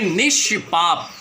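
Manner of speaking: निष्पाप said slowly, half ष clearly held before प; slow example word. Shown as a demonstration. Teacher presenting a new example word to students, slowly. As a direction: draw out निष्पाप so the bare ष can be heard. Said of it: "जैसे आपने निष्पाप शब्द का उच्चारण".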